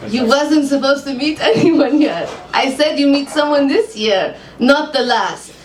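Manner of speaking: put-on lightly Hebrew-accented psychic, businesslike. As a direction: ask calmly, Hebrew accent. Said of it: "I've never done a Hebrew accent".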